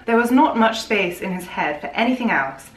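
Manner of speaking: put-on posh British reading; posh British accent. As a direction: read it in plummy posh British. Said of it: "You like posh British".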